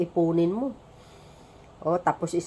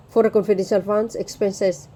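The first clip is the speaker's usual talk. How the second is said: talking while burping. Real, not acted. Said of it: "dumidighaya ko".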